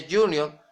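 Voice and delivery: "junior" said "YOO-nyor"; English J pronunciation. Shown as a demonstration. Preacher explaining English J, "junior" with a Y sound. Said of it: "la J en inglés es Y".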